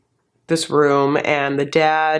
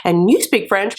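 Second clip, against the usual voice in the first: gushing sales pitch; 2 semitones higher, faster than usual. Pretend. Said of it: "I'd be like".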